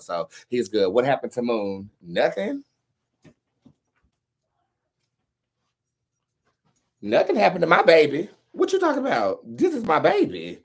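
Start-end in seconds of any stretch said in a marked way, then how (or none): 2.0-10.6 high-pitched cooing pet-parent voice. Real, not acted. Owner defending the pet Moon, doting baby talk. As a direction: coo it loudly in a raised, doting pitch.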